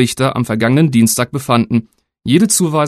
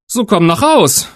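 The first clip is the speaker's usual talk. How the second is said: a hint of a young son, higher and slower; lightly voiced boy; 7 semitones higher, slower than usual. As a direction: call the goat home. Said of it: "sprach der Junge".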